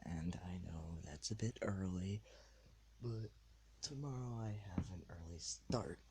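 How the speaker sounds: late-night whispered podcast; whispering. Real, not acted. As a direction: keep it to a hushed whisper.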